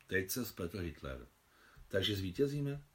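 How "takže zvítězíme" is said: excited question. Acted. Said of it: "zeptala se vzrušeně Sašenka".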